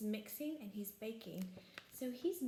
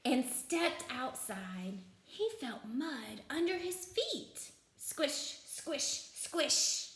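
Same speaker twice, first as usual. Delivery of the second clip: deliberate storybook narration with punchy sound words; slow down and relish each squish; children's storytime voice; story read-aloud; 4 semitones higher, much slower than usual. A narrator's reading. Reads picture book aloud.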